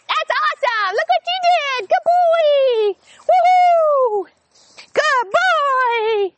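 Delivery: high, loud, delighted calling and praise; happy tone of voice. Shown as a demonstration. Trainer recalling the puppy, high thrilled praise. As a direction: sound thrilled he came, nothing like a drill sergeant. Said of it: "happy tone of voice".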